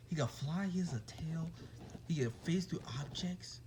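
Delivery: hushed, breathy horror-movie whisper; spooky whisper. Pretend. Telling viewers about ghost Deku in a spooky whisper. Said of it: "watching too many horror movies".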